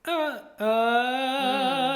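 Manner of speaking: chesty sung uh with a cry. Shown as a demonstration. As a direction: push a chesty cry sound. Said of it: "that really kind of chesty".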